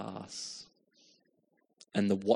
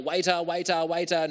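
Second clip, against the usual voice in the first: raised call, somewhat higher and louder; 6 semitones higher, 6 dB louder than usual. Retold or imitated. Ignored diner calling out to a passing waiter, raised call. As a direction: call the waiter again, less force. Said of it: "You're calling out".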